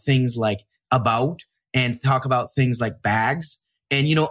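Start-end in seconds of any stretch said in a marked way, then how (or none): 3.0-3.6 lightly northern-accented "bags". Shown as a demonstration. Host showing off northern accents, a hint of northern accent on "bags". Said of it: "let out our northern accents".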